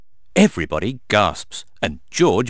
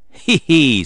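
high, louder "hee hee"; storyteller's voiced tee-hee; mock giggle; 6 semitones higher, 6 dB louder than usual. A narrator's reading. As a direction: giggle it teasingly as Mummy Pig. Mummy Pig giggles at Daddy's claim.

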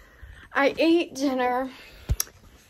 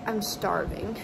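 numb-mouthed speech after the dentist; talking with half the face numb; slower than usual. Real, not acted. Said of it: "This whole side of my face is so numb".

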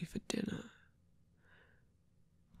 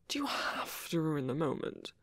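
mock scolding whisper; 5 dB quieter than usual.

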